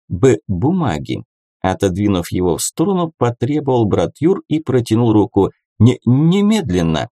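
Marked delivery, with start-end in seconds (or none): 0.1-1.2 halting stammered start to "бумаги"; stammering. A narrator's reading. Brother Yur stammers his demand. 5.8-7.1 halting stammered start to "немедленно"; stammering. A narrator's reading. Brother Yur stammers his demand.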